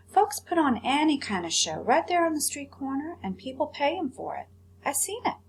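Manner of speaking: put-on mild boyish excitement, pitch climbing; lightly voiced eager boy. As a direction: sell the street-corner plan like a hopeful kid. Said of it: "Bryce said to Edward".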